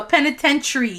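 penitentiary as "peni-TEN-tree"; tree ending. Shown as a demonstration. Co-host coaching her friend on the word, tree ending. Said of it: "it's like tree at the end".

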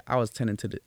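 quick, half-hearted Western accent attempt; badly faked Southern accent, rattled off fast; failed Southern accent. Shown as a demonstration. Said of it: "I'm trying to do a, a Western accent, Southern accent".

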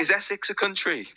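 high, ditzy questioning voice; ditzy mimic. Mimicking the contestant's geography question, high and ditzy. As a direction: ask it like a clueless airhead.

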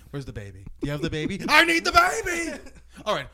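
imitated rant. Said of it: "He's like".

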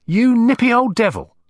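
the fake lady drops the act with grudging awe; coarse, complete change of manner. Crook to detective, dropping the posh act, rough and loud. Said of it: "with a complete change of manner".

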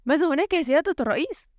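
high, quick anxious query; worried question. A narrator's reading. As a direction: ask the president with concern. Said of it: "سأله كبير السعاة في قلق".

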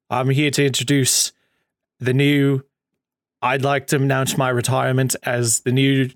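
lightly attempted posh British announcement; a hint of posh British formality; Regal's posh accent. Imitating Regal announcing his retirement, mock posh accent. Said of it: "Regal has more of a posh accent".

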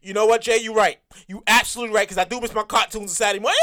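low, lazy agreeing viewer; audience voice. Retold or imitated. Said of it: "you sit there and be like".

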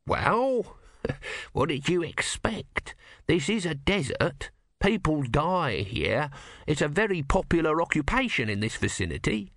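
testy, high character voice; testy small god. Acted.

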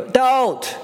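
acted plea, pitched high; high, imploring interjection; urgent pleading. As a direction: cut in with an urgent appeal. Acts Moses pleading again.

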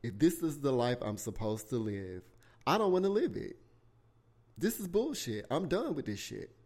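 mock yell that climbs in pitch; retold screaming. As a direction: act out yelling at God, held back in volume. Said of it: "screaming at the top of my voice".

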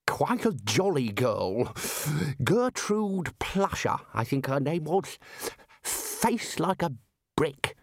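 lost in a fond memory; addled old wizard, wistful; dotty bursar. A narrator's reading. Bursar reminiscing.

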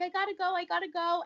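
bursting to leave for the call; excited rush. Retold or imitated. To her coworkers, rushing out, excited.

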